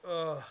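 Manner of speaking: brief mock groan; put-on moan; fake moan. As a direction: groan as if feigning sickness. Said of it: "fake moaning".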